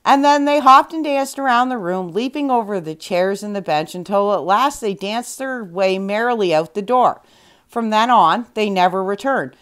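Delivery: lively storybook reading voice; story narration. A narrator's reading. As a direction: tell it like a bedtime fairy tale. Reads the fairy tale aloud.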